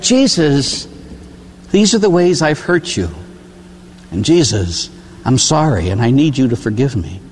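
humble, heartfelt apology to Jesus; sincere prayer. Shown as a demonstration. Priest models a heartfelt confession to Jesus, sincere. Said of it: "don't come out with just a laundry list".

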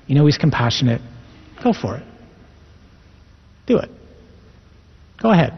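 a hint of the gentle, enticing devil; soft enticing devil. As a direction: sweet-talk them like the tempter, lightly voiced. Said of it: "speaking in this very soft voice, very subtly, very quietly".

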